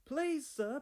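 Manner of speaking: high, small pleading voice; peeping. Acted. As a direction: pipe it up high and timid. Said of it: "peeped Thomas".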